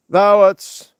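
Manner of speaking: a failed first try at a solemn Jesus voice, slowed down; botched Jesus voice. Acted. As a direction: start the holy voice, then lose it. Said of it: "that's not bloody Jesus".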